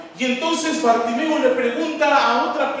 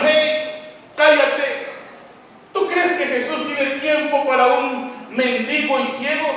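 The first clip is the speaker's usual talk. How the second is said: scolding; 5 semitones higher, 4 dB louder than usual. Retold or imitated. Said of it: "le reprendían para que se callara".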